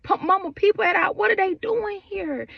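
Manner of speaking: pleading to understand what's happening; confused alarm. Retold or imitated. Arriving home to a crowd, asking mama in alarm. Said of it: "I'm like".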